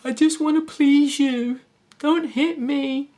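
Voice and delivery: high, slow, cowering little voice; timid abused woman. Acted.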